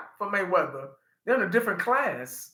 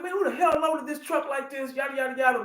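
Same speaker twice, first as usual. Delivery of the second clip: retold angry shout; 6 semitones higher, 4 dB quieter than usual. Yelling at coworkers about the badly loaded truck, a mock angry shout. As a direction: replay the angry yell at the truck. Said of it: "boy, I was pissed that day".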